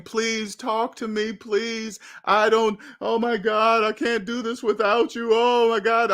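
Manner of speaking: mimicked desperate plea; imitated tearful begging. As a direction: plead as if crying, clearly imitated. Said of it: "begging and, I mean, just crying".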